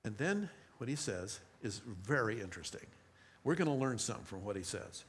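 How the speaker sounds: ordinary talk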